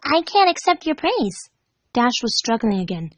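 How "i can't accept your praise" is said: high, sugary and bouncy; cheery Pinkie voice. Acted. Pinkie chirping cheerfully at her captive friend. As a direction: chirp it like a giddy party pony.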